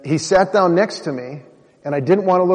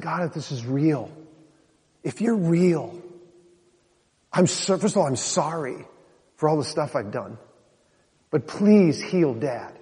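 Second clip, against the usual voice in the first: quiet prayer; 6 dB quieter than usual. Retold or imitated. Kneeling prayer to God.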